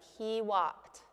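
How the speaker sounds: "he walked" with a throat catch before the final T; glottal catch. Shown as a demonstration. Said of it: "tricky is when it's between sounds".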